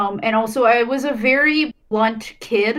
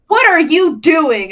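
quoting a teacher; 6 semitones higher, 6 dB louder, slower than usual. Retold or imitated. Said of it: "my teacher was like".

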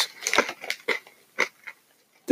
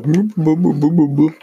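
mouth full; 7 semitones higher, 7 dB louder than usual. Retold or imitated. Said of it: "And the whole time I'll be like".

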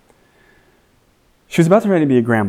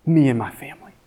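raised, pleading questions to God; anguished prayer; 8 semitones higher than usual. Retold or imitated. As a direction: cry out to God in doubt. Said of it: "Questions like".

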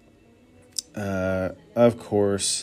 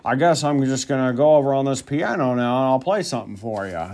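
Impression of a singer. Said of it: "It's exactly how he sounds".

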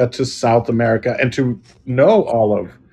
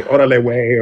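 Mexican slang. Retold or imitated. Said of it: "like Mexicans say".

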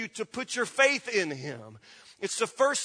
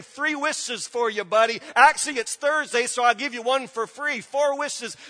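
mock genie Jesus. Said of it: "Jesus just popping up saying".

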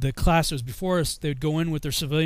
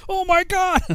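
loud, high mock-outraged exclamation; drill sergeant shouting; 6 dB louder, slower than usual. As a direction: yell it as the sergeants' stock opener. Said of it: "everything they said started out with".

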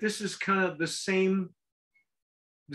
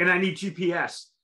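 laughing. Real, not acted. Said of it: "Oh God, I need a dictionary".

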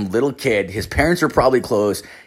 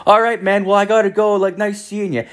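high, sing-song polite goodbye; friendly brush-off; 11 semitones higher than usual. Retold or imitated. Man escaping a chatty kid, high-pitched polite brush-off. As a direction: act out an overly polite exit.

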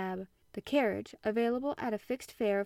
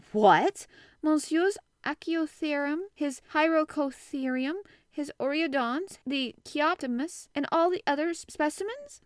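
surprised; 7 semitones higher, 6 dB louder than usual. A narrator's reading. Servant alarmed about the collections.

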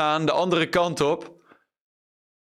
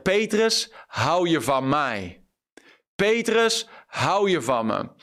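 Jesus calling Peter; 3 semitones higher, slower than usual. Acted. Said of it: "Jezus zegt".

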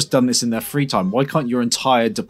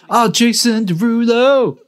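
excited; 10 semitones higher, 4 dB louder, slower than usual. Real, not acted. Excited at singer's appearance.

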